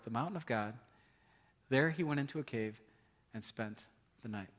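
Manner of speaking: steady, measured Bible reading; reading scripture aloud from the pulpit. Acted. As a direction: read the passage to the congregation. Pastor reads scripture aloud.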